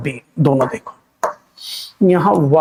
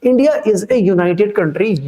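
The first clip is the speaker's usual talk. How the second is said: India is a united country read word by word, very slowly; slow read-aloud; 2 semitones higher, much slower than usual. Shown as a demonstration. Teacher reading the sentence to students, very slow.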